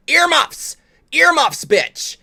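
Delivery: high, loud yell; shouted warning. Real, not acted. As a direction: shout it out sharply like an alarm. Calling out a mock warning.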